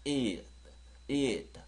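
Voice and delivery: it with the final t clicked off the tongue. Shown as a demonstration. Teacher modelling it for students, final t clicked. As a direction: finish it with a light tongue click. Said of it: "혀 차는 느낌 주라고 했죠".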